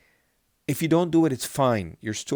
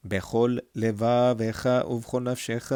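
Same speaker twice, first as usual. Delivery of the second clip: small pause after בכל before לבבך to split the two lameds; pause between words; faster than usual. Shown as a demonstration. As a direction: separate בכל and לבבך with a brief break. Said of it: "making a bit of a pause in between here".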